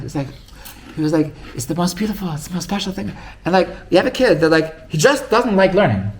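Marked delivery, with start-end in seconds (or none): 1.6-3.1 higher-pitched imitation of rapture; sweetly overselling it; mock gushing. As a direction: lightly act out a gushing rabbi. Voices rabbis gushing about learning.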